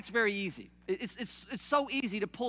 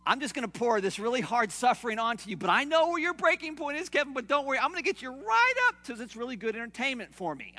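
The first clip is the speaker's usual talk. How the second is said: mock God voice; 3 semitones higher, 3 dB louder than usual. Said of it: "picture God going".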